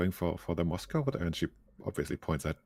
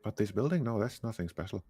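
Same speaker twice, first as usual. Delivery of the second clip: light put-on Turkish accent. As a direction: cafe worker with a Turkish accent. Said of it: "if that was an atrocious Turkish accent".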